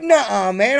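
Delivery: acted-out incredulous comeback; mock disbelief. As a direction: imitate a friend refusing to believe it. Retold back-and-forth disbelief.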